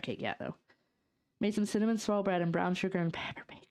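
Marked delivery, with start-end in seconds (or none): 1.4-3.6 whispered reading. Real, not acted. Reading a chat message.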